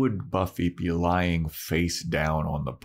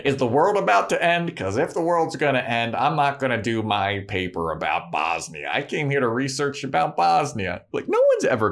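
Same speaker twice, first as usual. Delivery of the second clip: put-on higher, airy valley-girl quip; ditzy Cordelia; 5 semitones higher than usual. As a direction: sound self-absorbed and bright.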